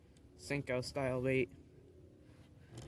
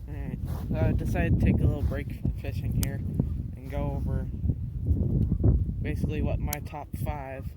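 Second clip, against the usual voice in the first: wind on mic; 5 dB louder than usual. Real, not acted. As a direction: wind roaring over the mic. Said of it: "sorry for the wind noise too".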